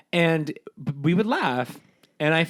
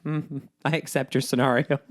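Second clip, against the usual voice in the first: deadpan acceptance. Shown as a demonstration. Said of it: "I could do a better job of being like".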